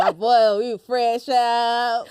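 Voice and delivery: slow mock ex-inmate voice; Julius. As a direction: drag it out like a man just released. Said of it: "he talks like this".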